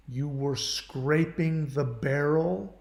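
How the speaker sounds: slow, incredulous echoing question rising at the end; stunned disbelief. Retold or imitated. Echoing the ex's cruel words in slow disbelief. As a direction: repeat her words back, not believing them.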